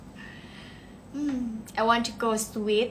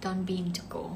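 whispered, under the breath; soft whisper; 3 semitones lower, 5 dB quieter, much slower than usual. Real, not acted. Streamer answers a viewer about travel, softly whispering. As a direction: murmur it to yourself. Quiet answer reading comments.

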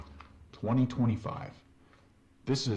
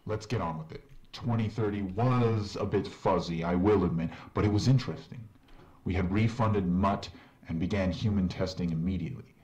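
game character. Acted. In-game doctor voice.

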